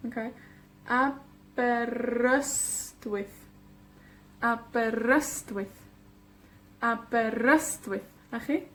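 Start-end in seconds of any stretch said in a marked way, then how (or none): 1.6-5.8 slow Aberystwyth with YST drawn out; a-ber-YST-wyth, slowly; stress on penultimate. Shown as a demonstration. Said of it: "cae en la penúltima sílaba". 6.8-8.0 Aberystwyth joined up, YST stressed; a-ber-YST-wyth; stress on penultimate. Shown as a demonstration. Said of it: "cae en la penúltima sílaba".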